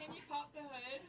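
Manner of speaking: her own put-on voice, not the model read; failed practical line read. Real, not acted. Interviewer makes her try the line again, she misses it. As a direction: voice stays far from the plain model. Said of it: "Okay, no, listen to me".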